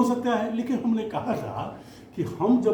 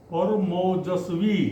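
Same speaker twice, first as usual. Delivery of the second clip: slow dictation; slower than usual. Shown as a demonstration. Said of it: "teacher dictates word list".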